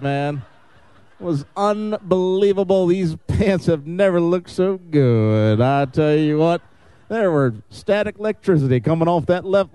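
a light put-on Southern accent, drawn out in places; playing a folksy Southern emcee, lightly. Emcee thanks door prize ladies in a light Southern accent. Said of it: "with this southern accent".

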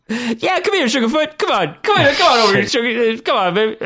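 high, sweet mock flirting; a high put-on voice, playfully mocking; teasing Kevin Hart. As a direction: coax her over in a high sugary voice.

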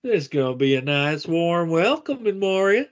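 hammed-up Southern Gimli; deep Georgian accent. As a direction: play a dwarf from deep Georgia. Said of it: "Gimli as a dwarf with a deep Georgian accent".

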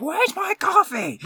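drawn-out, very high mock wail; hammed-up customer demand, slow and squealing; mock yell. Customer yelling for coffee, slow high mock yell. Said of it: "yelling at me".

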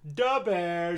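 lightly voiced Chicago fan; a hint of Da Bears superfan; Midwestern accent. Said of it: "like, a Midwestern accent".

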